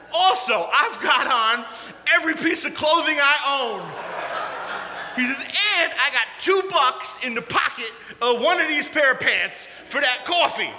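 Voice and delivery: excited Caleb. Retold or imitated. Caleb's bundled-up boast.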